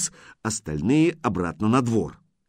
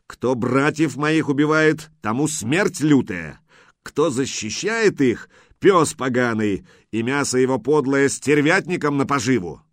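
menacing threat; 3 semitones higher, 3 dB louder than usual. Acted. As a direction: threaten him with death. Threatening oath before fight.

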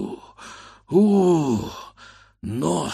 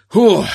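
relieved gasp; 10 semitones higher, 11 dB louder than usual. A narrator's reading. Relief after heaving pot.

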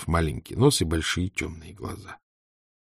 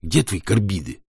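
slow, gruff voice of a big lad; a hint of a hauling bargeman; gruff bass voice. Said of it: "солидный, басистый ... сердито спросил".

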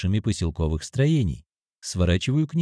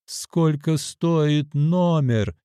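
nearly shouting; 6 semitones higher, much slower than usual. Acted. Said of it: "чуть не кричу я".

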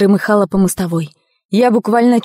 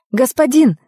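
a raised call down the road; 6 semitones higher than usual. A narrator's reading. Young woman hails a cart driver on an empty road, calling out. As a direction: hail the passing cart driver. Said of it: "крикнула я".

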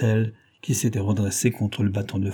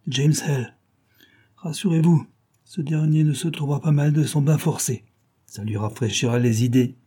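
smug detective; 3 semitones higher than usual. Acted. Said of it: "considéra en souriant".

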